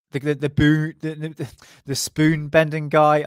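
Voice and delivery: slow, slurred stumble over the words; slurring words. Real, not acted. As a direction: let the words blur and stumble, slowly. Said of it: "I'm slurring my words".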